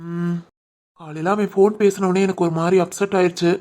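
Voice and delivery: husband confessing worry about his sister's surgery, softly; subdued worry. Acted. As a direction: admit the fear quietly. Worried about sister's operation.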